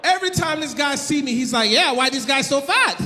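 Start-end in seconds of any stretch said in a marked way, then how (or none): 1.7-3.0 mock Haitian accent, blunt question. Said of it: "I can do the accent".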